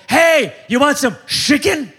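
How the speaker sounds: mock friendly invite. Pastor mocking how people invite friends to chicken, laughing and chirpy. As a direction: pitch chicken like a cheery greeter.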